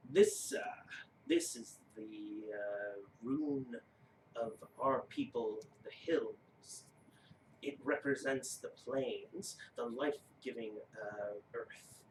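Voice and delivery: low, soft, slow rune-giant voice; slow deep giant. Acted. Giant shows player the runes, slow solemn voice. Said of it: "that's not the voice".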